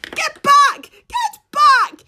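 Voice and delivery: high alarmed shout; crying out. A narrator's reading. Farmer woman shooing the pig from her van, alarmed shout. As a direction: shoo him off in panic. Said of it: "she cries".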